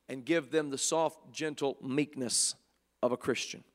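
tender, hushed preaching; gentle. Acted. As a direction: ease into meekness, voice settling. Describing soft gentle meekness.

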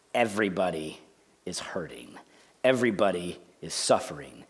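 very low, near-whispered; hushed. Real, not acted. Pastor telling what twenty years of ministry taught, hushed. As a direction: let the voice sink almost to nothing.

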